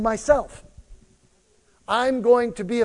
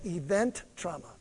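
call for response; 3 semitones lower, 9 dB quieter than usual. Shown as a demonstration.

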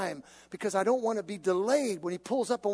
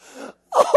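breathy burst of laughter; 12 dB louder than usual. Retold or imitated. Laughing at his own frustration.

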